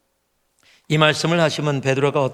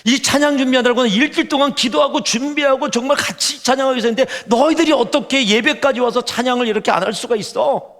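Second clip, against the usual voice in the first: higher, heated scolding of the students; retold angry outburst; 7 semitones higher, 3 dB louder than usual. Worship leader scolding students who won't sing, heated. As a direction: replay the young leader's angry rant. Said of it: "막 화를 냈어요".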